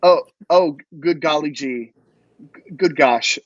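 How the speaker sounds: mock flustered innocence; gee-whiz, wide-eyed and sweet; fake wholesome. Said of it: "act out ... Elon Musk hearing about that".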